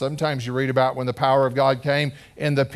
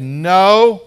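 a flat, loud higher "No"; blunt refusal; 5 semitones higher, 10 dB louder than usual. Retold or imitated. Young man refusing the preaching woman, loud blunt no. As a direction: shut her down hard. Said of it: "He said".

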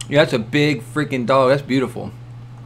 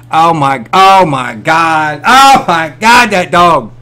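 amazed exclaiming; 7 dB louder, slower than usual. Real, not acted. Stunned by dog video.

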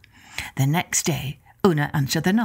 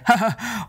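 nervous laugh; 3 semitones higher than usual. Acted. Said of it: "laughed nervously".

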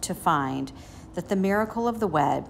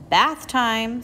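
cheerful and loud, a bit higher; 6 semitones higher, 6 dB louder than usual. A narrator's reading. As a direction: call it out cheerfully. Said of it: "said Zuckerman cheerfully".

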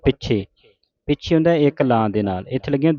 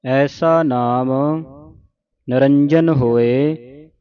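slow, measured model recitation; scripture recitation demo; much slower than usual. Shown as a demonstration. Teacher showing congregation correct Japji Sahib reading, slow recitation. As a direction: recite it slowly for learners to copy. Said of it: "ਸ਼ੁੱਧ ਉਚਾਰਨ ਆਪਾਂ ਸਿੱਖ ਰਹੇ ਹਾਂ".

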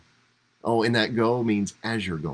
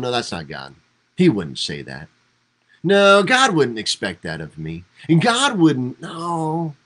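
inner protest; 3 semitones higher, 4 dB louder than usual. Retold or imitated. Second-guessing inner voice.

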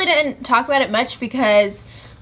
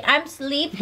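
put-on baby talk; 4 semitones higher, slower than usual. Shown as a demonstration. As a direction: coax it out like talking to a baby.

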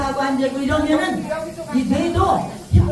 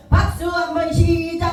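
high, chanted clap cue with a stretched last word; calling the cue; 5 semitones higher than usual. Real, not acted. Instructor starting the group's clapping, high sing-out call. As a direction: call out the count-in on a high held note.

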